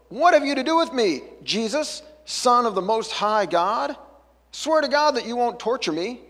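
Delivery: high, loud cry from the possessed man; demon shouting. Acted. Possessed man shouting at Jesus, loud and high. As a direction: fling the words at Jesus as a frightened shout.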